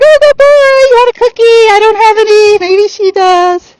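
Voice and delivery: put-on high cooing baby talk to the horse; sweet praise to horse. Shown as a demonstration. Trainer praising the horse in a high cooing voice. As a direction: coo at him like a pet. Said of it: "So I'd be like".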